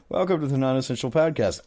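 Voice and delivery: zany morning radio DJ; cheesy radio host voice; radio show host. Pretend. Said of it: "one of those radio type shows with all the stupid sound effects".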